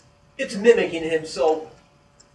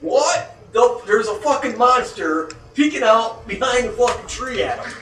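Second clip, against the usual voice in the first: louder, alarmed panic; scared; 3 semitones higher, 6 dB louder than usual. Retold or imitated. Frightened Bob seeing a monster peek out, loud alarmed. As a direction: tell it like a monster is staring at you. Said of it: "he's like".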